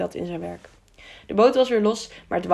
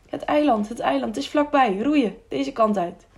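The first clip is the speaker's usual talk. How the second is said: higher-pitched, urgent call to row; excited sighting; 5 semitones higher than usual. Acted. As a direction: spot land and urge your friend on, pitched up. Sights island, urges friend to row.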